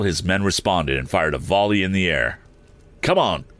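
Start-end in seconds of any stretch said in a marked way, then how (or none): 3.0-3.5 high, drawn-out call. A narrator's reading. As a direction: call to a companion, pitched high and slow. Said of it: "called Mister Sharp".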